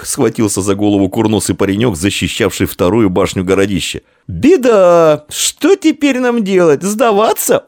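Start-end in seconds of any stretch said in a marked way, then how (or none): 4.3-6.8 high, panicky lament, slowing down. A narrator's reading. Snub-nosed boy despairs that their side is lost, panicky high wail. 6.8-7.6 high, anxious «Сдаваться?», rising in alarm; panicky question. A narrator's reading. Snub-nosed boy asks if they must give up, panicky high.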